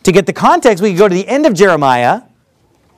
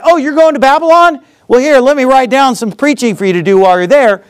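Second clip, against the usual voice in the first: lightly acted, higher-pitched offhand request; mock-casual higher voice; casual acted quote; 5 semitones higher than usual. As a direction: toss it out like a spur-of-the-moment idea. Voices Jeremiah chatting to traveller.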